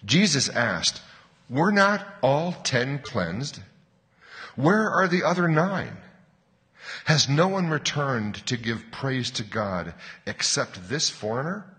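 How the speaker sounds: deliberate, animated scripture reading; bedtime story reading. Real, not acted. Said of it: "I'll read slowly, as if you were a child".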